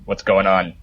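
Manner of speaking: put-on a light Scottish accent; lightly voiced Scottish accent, asking the thugs. Dwarf asks two thugs in a mild Scottish accent. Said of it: "that's my best Scottish accent".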